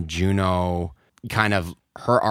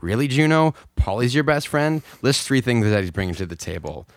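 exasperated mock tirade, pitched up; higher, incredulous sketch-style rant; mock going off; 5 semitones higher, 4 dB louder than usual. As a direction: go off on a friend, half in play. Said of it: "just go off".

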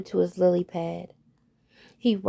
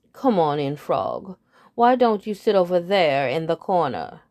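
lower, condescending host; lightly voiced head bird; 3 semitones lower, 4 dB louder than usual. Head bird seating the frog, lightly lower and condescending. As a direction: wave him off to the corner. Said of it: "said the head bird".

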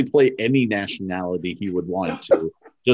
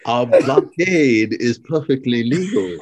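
movie quote voice; 3 semitones higher, slower than usual. Acted. Quoting movie line in voice.

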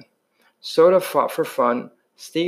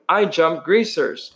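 mock scream; 3 semitones higher than usual. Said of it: "Two-Bit screamed".

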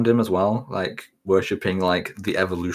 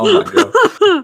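high, slow, stretched gasp of shock; 8 dB louder, much slower than usual. Retold or imitated. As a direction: drag it out in disbelief. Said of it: "I was like".

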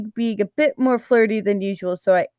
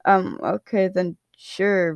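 ordinary delivery

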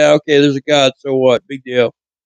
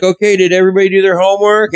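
teacher voice; 6 semitones higher, faster than usual. Retold or imitated. Teacher voiced in school story.

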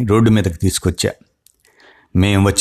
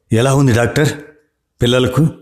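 a touch of tears, higher pleading question; lightly voiced mother asking through tears; mild tearful asking; 4 semitones higher than usual. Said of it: "ఏడుస్తూ అడిగింది". (కొంచెం ఏడుపుతో అడగడం)

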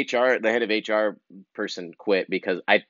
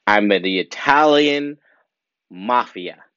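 mock Italian mafia; 4 dB louder, slower than usual. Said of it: "some kind of New York Italian something".

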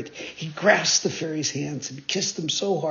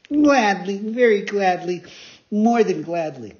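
higher, louder, building eagerness; eager puppet; 4 semitones higher, 5 dB louder than usual. Acted. Pinocchio eagerly agreeing to obey, higher and louder. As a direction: promise with glee.

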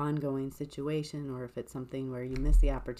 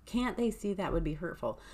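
acted indignation, higher and much louder at first; angry questioning; 4 semitones higher, 7 dB louder than usual. Speaker voices someone hurt by a loved one, angry. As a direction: demand answers in mock anger, pitched up. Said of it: "angrily being like".

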